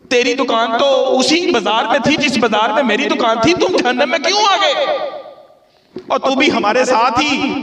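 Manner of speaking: dramatized heaven-dweller questioning. Acted. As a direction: act out the dweller of paradise pleading to know why. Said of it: "आज जरा इस अंदाज से भी सुन लें". (हैरान होकर पूछता जन्नती, ऊँची आवाज़ में सवाल)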